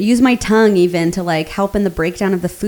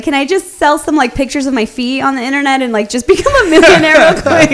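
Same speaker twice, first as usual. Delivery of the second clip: joking, laughing; 4 semitones higher, 3 dB louder than usual. Retold or imitated. Joking wish.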